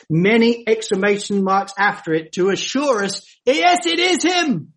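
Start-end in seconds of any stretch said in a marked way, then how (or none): 3.4-4.7 higher, ringing yes with a firm fall; emphatic yes. Real, not acted. Preacher assures the congregation, emphatic and higher. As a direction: proclaim it boldly. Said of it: "emphatically underlines that statement and makes that statement bold".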